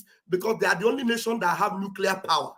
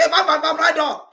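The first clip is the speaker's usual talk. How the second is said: mocking cheerer; 7 semitones higher, 6 dB louder than usual. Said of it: "you just come and say".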